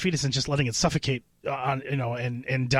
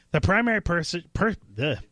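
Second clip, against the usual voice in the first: mouth full; 4 semitones higher than usual. Real, not acted. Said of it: "let me speak with my mouth full".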